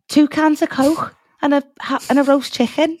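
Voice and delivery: Paul Hollywood impression. Host shows off a Paul impression for her co-host, in a hammed-up Liverpudlian accent. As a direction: overplay the Scouse twang for laughs. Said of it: "That's my impression of Paul Hollywood".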